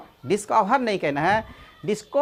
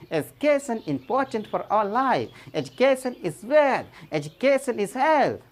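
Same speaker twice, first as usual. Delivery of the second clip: Education spoken very slowly and deliberately; slow dictation for learners; slow example sentences; much slower than usual. Shown as a demonstration. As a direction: read each sentence slowly, word by word. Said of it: "इस तरह पर कहते हैं।".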